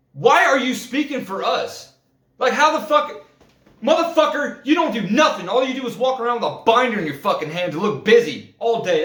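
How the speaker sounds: fed up worker telling off a manager, heated; heated retort. Retold or imitated. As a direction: snap back at the manager like you're fed up. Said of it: "Sorry for getting heated there".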